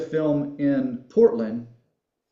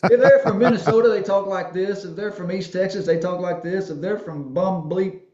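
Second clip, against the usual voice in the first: louder, higher hammed-up redneck voice, laughing through it; mock redneck comic; 7 semitones higher, 5 dB louder than usual. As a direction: play a comedian's redneck bit and crack up at it. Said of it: "but he's like".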